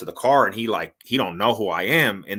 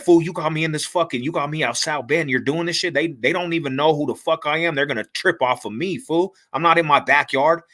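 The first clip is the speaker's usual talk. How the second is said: retold yelling; 5 semitones higher than usual. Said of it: "I'm yelling at this fool".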